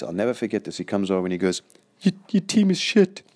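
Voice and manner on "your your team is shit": very high, loud strange coach voice; high-pitched voice. Retold or imitated. Coach insulting the speaker's team, high squeaky voice. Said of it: "he says to me in a very high-pitched voice".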